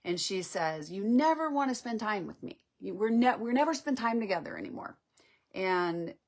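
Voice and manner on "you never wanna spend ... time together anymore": raised, complaining protest. Acted. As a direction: reach out with a hurt complaint. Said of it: "she's reaching for him with a protest".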